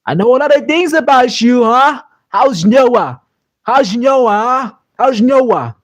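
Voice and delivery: put-on high, taunting Irish accent; Conor McGregor impression. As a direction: needle him in a cocky Irish brogue. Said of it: "That's my best Conor McGregor impression".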